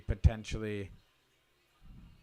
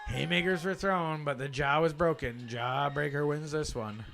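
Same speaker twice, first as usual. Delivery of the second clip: slow, raised dramatic recap; dramatic call; 4 semitones higher, 5 dB louder, slower than usual. Real, not acted. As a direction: announce it like a big finale. Commentator's dramatic call of result.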